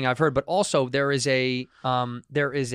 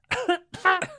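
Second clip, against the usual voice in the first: high, short mock cough; imitated cough. Showing how a colleague coughed, imitated high cough. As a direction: fake a sudden cough in imitation. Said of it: "She was like".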